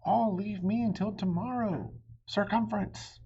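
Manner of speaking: loud, high royal shout. A narrator's reading. King Arthur shouting at his squabbling knights, loud and high. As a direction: bark it out like an angry king. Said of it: "Then King Arthur shouted".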